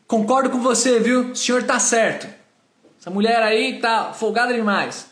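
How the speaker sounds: mock call of support across the aisle; salesman calling out. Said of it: "ele grita pra mim". (vendedor falando alto, imitado)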